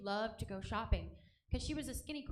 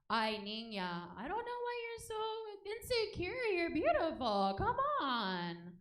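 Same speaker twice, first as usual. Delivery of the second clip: mom voice; 7 semitones higher than usual. Retold or imitated.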